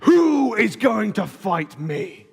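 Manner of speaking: very slow, lightly voiced giant's taunt; mild mock booming challenge; deep booming shout. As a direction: stretch each word like a giant across the valley. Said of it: "deep, booming voice ... shouting".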